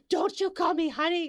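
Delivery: high, sassy mock retort; mock angry passenger. Passenger objects to being called honey, mock sassy. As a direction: snap back as the offended passenger. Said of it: "And she's like".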